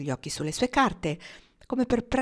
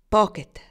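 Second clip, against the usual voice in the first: name set apart, firm and loud; carefully enunciated; 3 semitones higher, 8 dB louder than usual. A narrator's reading. Marnie addresses Pocket squarely, enunciating deliberately. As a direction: articulate it sharply and deliberately. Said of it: "scandendo bene le parole".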